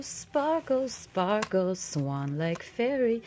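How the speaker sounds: loud, high sparkly fairy announcement, slowing at the end. Pretend. Fairy introducing herself to Elizabeth, loud fairy voice. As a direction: present yourself like a magical fairy. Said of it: "Here comes the fairy".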